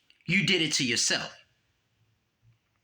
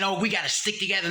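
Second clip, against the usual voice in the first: mocking quote; 3 semitones higher, faster than usual. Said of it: "now you're saying".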